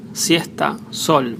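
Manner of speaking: "siesta, sol" with a plain English S. Shown as a demonstration. Spanish teacher showing letter S, "siesta, sol" with an English S. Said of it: "sound as the English S".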